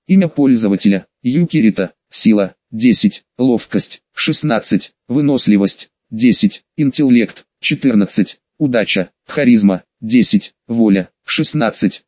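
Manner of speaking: low, measured stat announcement; system readout. A narrator's reading. Game system lists the user's stats, low announcer readout. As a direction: read each stat as a separate low-pitched item. Reads out system status screen.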